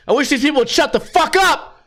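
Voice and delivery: high-pitched complaint building on the curse; imitated loud girlfriend. Girlfriend complaining about other diners, mock loud. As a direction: mimic her announcing it to the room. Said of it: "she'll get loud as fuck".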